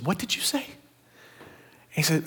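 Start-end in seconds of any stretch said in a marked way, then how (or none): 0.0-0.7 soft, cold question to the player; quiet menacing challenge. Retold or imitated. Coach quietly confronting a player who asked for water, menacing.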